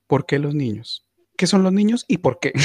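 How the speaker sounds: hammed-up why-me protest; mock desperate cry at heaven; mock outraged plea. Mock questioning God about children.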